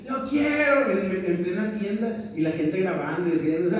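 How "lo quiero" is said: higher-pitched mock tantrum cry; imitated child tantrum. Imitating a child demanding a toy in the store, mock yell. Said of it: "Niños gritando así".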